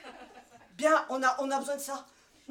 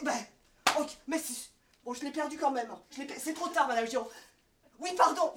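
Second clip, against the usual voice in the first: frazzled manager; 4 dB louder than usual. Acted. Frazzled boss on phone sketch.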